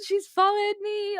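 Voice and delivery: high breathless squeal; panicked excitement. Retold or imitated. Running to mum, squealing with panicked joy. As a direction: blurt it out in a giddy panic.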